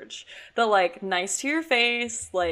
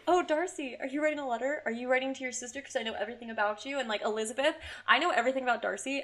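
sugary flirting Caroline; 4 semitones higher, 3 dB quieter, faster than usual. Retold or imitated. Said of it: "literally you're like".

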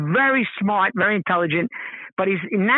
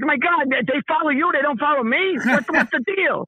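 higher-pitched comic complaint; exasperated, wounded pride played for laughs; touched a nerve; 5 semitones higher than usual. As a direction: whine about being overlooked, half joking. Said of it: "I touched a nerve".

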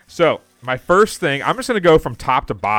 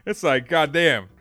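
delighted amazement; 4 semitones higher, 6 dB louder, slower than usual. Real, not acted. Amazed laughing at big ball.

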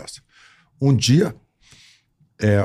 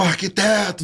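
higher voice, drawn-out call; calling the architect; 10 semitones higher, slower than usual. Retold or imitated. Rubens calling the architect from the stage, higher. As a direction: call the name in character. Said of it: "o Rubens deu a volta".

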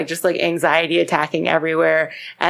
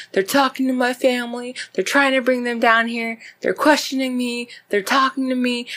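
higher, lightly whiny mock sobbing; mock crying; 6 semitones higher than usual. Tyria on the phone to Eileen about police, mock crying. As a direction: plead it in a raised, half-crying imitation. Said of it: "Tyria is just crying".

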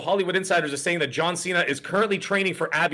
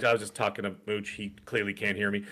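embarrassed mumble; 4 semitones lower, 5 dB quieter than usual. Retold or imitated. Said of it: "I was, like, embarrassed".

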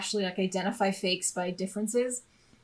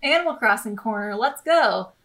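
excited segment intro; 5 dB louder than usual. Real, not acted. Announcing her recurring segment.

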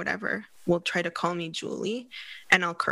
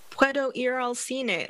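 exaggerated fake accent in Spanish, higher and slow; 6 semitones higher than usual. Shown as a demonstration. Showing her teenage fake accent in Spanish, exaggerated. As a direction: overdo a put-on accent in Spanish, drawn out. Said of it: "put on a fake accent in Spanish".

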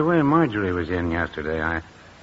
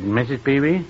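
mildly miffed, pitched up with a rising end; 5 semitones higher than usual. Retold or imitated. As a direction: say the name as a higher, miffed query. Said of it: "That's what I call her when I'm miffed".

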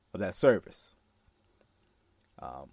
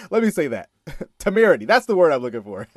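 laughing mid-sentence; words breaking into laughter; 3 semitones higher, 4 dB louder, faster than usual. Real, not acted. Laughing at his own word.

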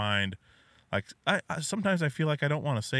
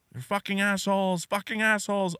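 high mock toddler chant; imitating toddler screaming; 9 semitones higher than usual. Dad imitating his son shouting swears through a store, high and singsong. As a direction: repeat it like a toddler yelling in a store. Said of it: "He'll just repeat screaming these".

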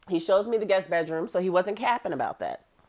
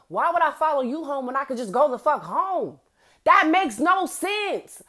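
higher and louder, slowing on the last words; incredulous; 7 semitones higher, 4 dB louder than usual. Retold or imitated. Narrator scoffing at following the cop home, incredulous and high. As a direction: spell out how dumb it is. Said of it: "And I'm like".

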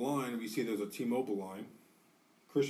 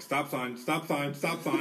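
urgent warning; 4 semitones higher, 5 dB louder, slower than usual. Retold or imitated. Warning a drunk driver.

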